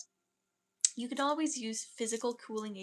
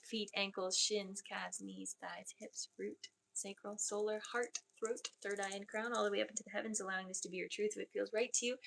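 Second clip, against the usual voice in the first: guided meditation. Acted. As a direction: lull the listeners down into calm.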